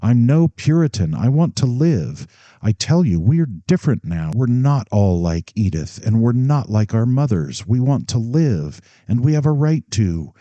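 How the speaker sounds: nearly out of control with panic; almost hysterical. Acted. Bride on her last night, almost hysterical at father. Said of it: "The girl was almost hysterical".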